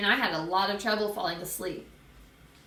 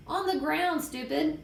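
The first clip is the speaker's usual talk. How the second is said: high, impatient put-down; annoyed kid talking back; exasperated retort; 7 semitones higher than usual. Acted. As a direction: answer her as if it's obvious. Boy snaps at Sheila.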